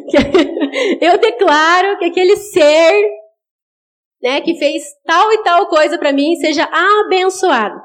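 slow, laughing correction into a blessing; chuckling, half-hearted declaration of blessing; laughing mock blessing. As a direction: catch yourself and bless him through a laugh. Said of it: "Você fala assim, de noite no teu quarto, assim, em voz audível".

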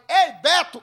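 second shouted call. Retold or imitated. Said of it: "Quando eu falei".

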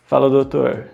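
mild mock bravado toward the client; cocky builder. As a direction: greet the boss with easy swagger. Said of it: "todo cheio de marra".

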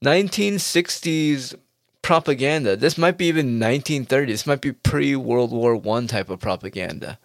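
mock outrage. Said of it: "I was like".

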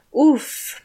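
high uff of surprise; surprised grunt. Acted. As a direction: let out a short uff. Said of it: "machte Caroline".

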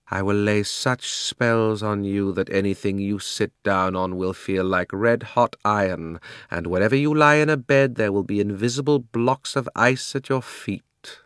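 commanding sorceress laying a threat; menacing witch. Acted. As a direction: lay down a curse, drawing out the words. Witch threatens the old man.

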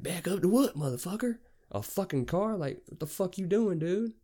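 high-pitched, incredulous outrage; worked-up, disbelieving comeback; indignant retort. Retold or imitated. Acted quarrel with the driver.

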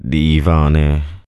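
a slow pained word through the hurt. A narrator's reading. Pilate, in pain, calls the prisoner mad, slow and pained. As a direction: let the pain drag it out slowly. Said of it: "پیلاتوس با صورتی پردرد گفت".

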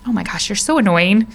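playful, exasperated grumble; mock irritation. Imagining Jesus annoyed at the storm, mock irritated. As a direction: act comically fed up. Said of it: "being so irritated with something".

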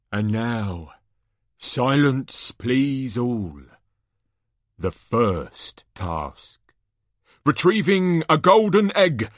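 measured showman's build-up with big pauses; suspenseful announcer. Acted. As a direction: hold the crowd in suspense before the reveal. Announcer hushes crowd, builds suspense.

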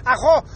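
mock "Ajo" with a guttural scrape for the double R; throaty R. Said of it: "what the fuck is ajo?".

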